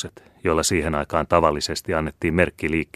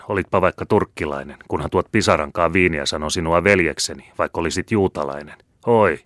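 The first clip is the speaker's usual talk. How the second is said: janoinen sotilas voihkii ja sitten huutaa kovempaa; puoliksi valittaen, puoliksi uhaten. Acted. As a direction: valittaa ensin, sitten uhkaa ja huhuilee apua. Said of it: "puoleksi valittaen, puoleksi uhaten". (haavoittunut ratsumies huutaa viiniä pimeässä vajassa, valittaen ja uhaten)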